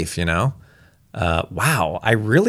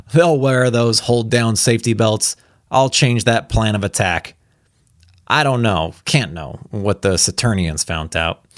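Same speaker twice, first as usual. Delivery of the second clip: blustering general; 4 semitones higher than usual. Acted. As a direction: order the officers about like a gruff general. General's outburst read in character.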